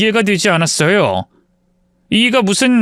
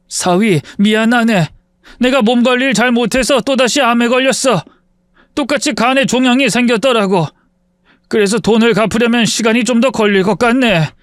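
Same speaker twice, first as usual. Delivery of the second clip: apologetic father; 5 semitones higher than usual. Acted. Sick father apologises on knees.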